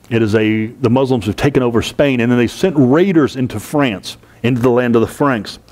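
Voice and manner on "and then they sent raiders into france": raiders given the main weight of the line, falling after it; stress on raiders. Shown as a demonstration. Teacher pointing students to the word raiders, stressing it. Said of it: "emphasis on the word raiders here".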